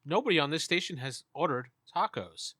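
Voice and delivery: lightly mechanical station operator; a hint of automated announcement; electronic voice. Game master as the station refusing the tacos, lightly electronic voice. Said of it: "the voice is very electronic now".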